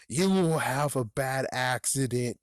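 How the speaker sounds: slow, drawn-out spooky voice; hammed-up haunting menace; ghostly threat. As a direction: threaten like a ghost, stretching the words. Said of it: "realize that he's a ghost".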